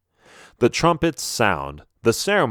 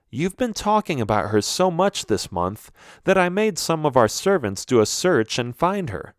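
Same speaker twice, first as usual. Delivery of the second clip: slightly higher, animated queen; a hint of a mother revealing a surprise; lightly voiced eager mother; 3 semitones higher than usual. Mom explains the search to her son, lightly animated.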